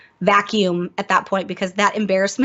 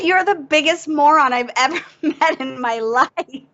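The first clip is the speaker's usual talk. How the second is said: higher mock yell, laughing through the insult; 6 semitones higher than usual. Canadian friend on Skype yells at the clueless tank, mock yell. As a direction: play the furious friend, half laughing. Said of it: "starts screaming at me".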